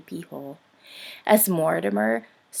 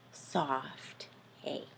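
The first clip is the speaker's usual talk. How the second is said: whisper; 6 semitones lower, 14 dB quieter than usual. A narrator's reading. Bedtime story sinking to sleep.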